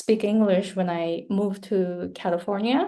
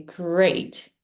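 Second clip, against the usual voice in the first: understated sarcastic "great", drawn out. Shown as a demonstration. Teacher showing how intonation changes emotion, mildly sarcastic. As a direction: stretch "great" so it means bad. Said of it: "depending on the intonation, it changes the emotions".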